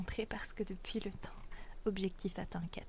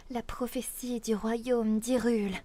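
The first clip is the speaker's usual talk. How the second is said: princess voice; 2 semitones higher, 6 dB louder, slower than usual. Pretend. Princess prophecy voice again.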